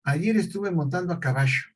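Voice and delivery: "caballo" said with sh, "cabasho"; ll as sh sound. Shown as a demonstration. Teacher demoing a substitution error: ll said as sh. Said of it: "esta pronunciación".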